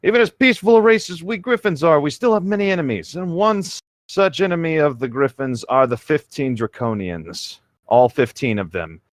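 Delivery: put-on high, earnest young hero voice; Link's voice. Reader voices Link telling the princess of the war. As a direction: pitch it up for the hero. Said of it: "that's Link's voice".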